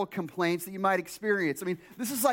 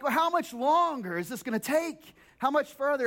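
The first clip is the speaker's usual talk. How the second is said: raised, whiny nagging; impatient traveler; 5 semitones higher than usual. Retold or imitated. Pastor mimicking a complaining passenger, whiny and higher. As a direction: nag about the distance.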